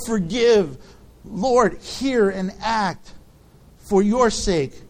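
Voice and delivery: Lord, listen — slow and pleading, reverent; slow earnest prayer reading. Acted. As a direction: read each plea slowly, weighing it, like a prayer. Reads Daniel's prayer aloud.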